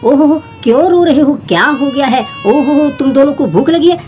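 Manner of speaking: mock-sad coo to crying baby dolls; cooing to crying babies. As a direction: soothe the dolls as if they were really crying.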